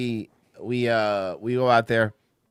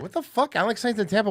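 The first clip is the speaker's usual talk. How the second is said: retold shock; 8 semitones higher than usual. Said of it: "I'm like".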